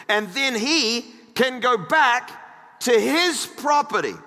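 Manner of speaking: emphatic, projected pulpit reading; measured Bible reading with weighted key words; scripture reading. Acted. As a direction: read the verses out to a congregation. Reads scripture aloud to congregation.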